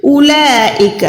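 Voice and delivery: اولئک drawn out slowly; slow reading. Shown as a demonstration. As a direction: show اولئک letter by letter. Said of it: "next والے آیت میں دیکھیں".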